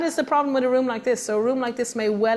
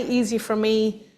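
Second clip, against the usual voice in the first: smug; slower than usual. Pretend. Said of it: "Emotional intelligence does not say".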